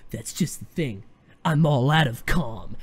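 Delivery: lightly acted, low brooding hero; Danny Rand. Fan imitating Danny before he starts fighting, mock-grim. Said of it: "where Danny's like".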